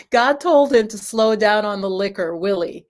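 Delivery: lightly attempted Jamaican accent; a hint of Jamaican father; bad Jamaican accent. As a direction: imitate Dad's Jamaican accent, not quite landing it. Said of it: "my very bad flashback to Jamaican accent".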